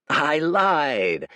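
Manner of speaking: gleeful villainous cackle; cackling. A narrator's reading. Dorian cackling at the terrified boy. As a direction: gloat like a devil. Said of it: "cackled Dorian".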